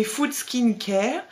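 French speaker reading an English product name with an English accent, a bit slow; trying for an English accent on the label; English accent attempt. Shown as a demonstration. Reading an English product label to viewers, put-on English accent. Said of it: "Sorry pour mon accent".

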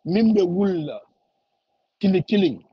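ordinary talk, nothing marked

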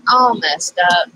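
slightly stuffed-up nose from allergies; a little nasally. Real, not acted. Crafter apologizing to viewers for allergies, a little nasally. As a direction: talk with a mildly congested nose. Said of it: "sound a little nasally".

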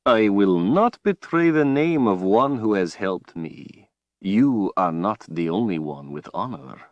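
slow, silky villain voice; a cold, gloating overlord; menacing villain. Acted. Villain Rahl speaks.

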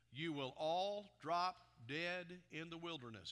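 projected reading of God's judgment; solemn preacher's proclamation, weighty and firm; forceful scripture reading. A narrator's reading. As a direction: declare the sentence to the congregation. Reads scripture aloud as the Lord.

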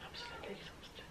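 soft, breathy, worn-out whisper; barely whisper, drained of energy; exhausted whisper. Real, not acted. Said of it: "I'm exhausted".

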